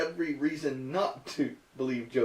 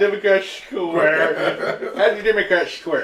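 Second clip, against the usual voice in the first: giggling through the words; laughing; 2 semitones higher, 5 dB louder than usual. Real, not acted. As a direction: laugh while repeating it. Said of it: "read it with a lisp".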